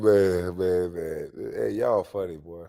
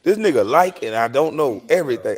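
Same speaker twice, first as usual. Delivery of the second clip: mocking impression. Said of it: "I'm a straight clown 'cause I sound like you".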